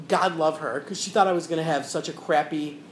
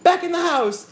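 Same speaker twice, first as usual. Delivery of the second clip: calling the cat; 11 semitones higher, 4 dB louder than usual. Retold or imitated. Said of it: "clapped my hands and went".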